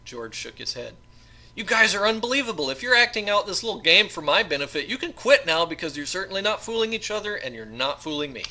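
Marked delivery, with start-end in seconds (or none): 1.6-8.4 loud, high incredulous retort; exasperated disbelief. Acted. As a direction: throw it back at them, fed up. George confronts his captors.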